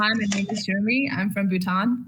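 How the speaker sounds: self-introduction in an Aussie accent; Australian accent. Shown as a demonstration. Asked by friends for a taste, Australian accent. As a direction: say it with an Australian twang. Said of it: "in the Aussie accent".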